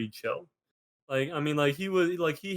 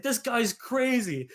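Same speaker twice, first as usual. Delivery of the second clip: imitating the scrawny kid; 10 semitones higher, slower than usual. Kid complains during the fight.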